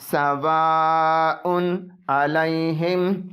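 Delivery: सवाउन अलैहिम very slow, the न of सवाउन clear; सवाउन अलैहिम, tanween read openly; clear izhar. Shown as a demonstration. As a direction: stretch out सवाउन अलैहिम with a distinct नून. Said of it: "ज़ाहिरी तौर पर पढ़ेंगे".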